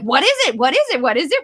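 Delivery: quick eager repeats; eager questions. Shown as a demonstration. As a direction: bubble with curiosity. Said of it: "The excitement on my face".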